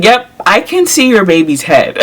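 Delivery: words bubbling with laughter; laughing while quoting. Retold or imitated. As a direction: quote the nurse through a laugh. Nurse quoted amid laughter.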